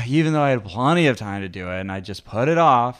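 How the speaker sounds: sighing, mildly woeful complaint; victim voice. Shown as a demonstration. Showing how failures were read out, mock victim voice. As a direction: sigh first, then feel sorry for yourself. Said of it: "you're supposed to say it like this".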